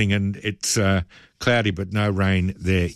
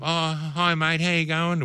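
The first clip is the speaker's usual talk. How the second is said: funny dog voice; 7 semitones higher than usual. Retold or imitated. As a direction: coo a hello to the dog. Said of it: "we put on that funny dog voice".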